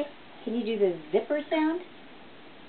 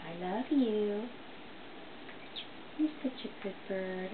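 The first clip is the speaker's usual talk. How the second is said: hushed, loving pet talk; soft tender cooing; 5 dB quieter than usual. Real, not acted. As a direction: murmur lovingly to the bird. Owner softly praising her parrot.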